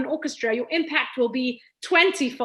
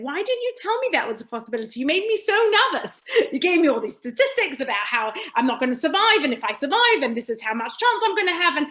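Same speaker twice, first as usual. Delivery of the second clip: rising, louder protest at the doctor; indignant, getting louder and higher; retold anger; 4 semitones higher, 3 dB louder than usual. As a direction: let the old frustration build as you retell it. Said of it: "And I was so angry with my doctor".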